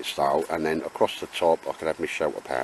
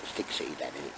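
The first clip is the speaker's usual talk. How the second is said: dog voice; 6 semitones lower, 10 dB quieter than usual. Pretend. Voicing the dog.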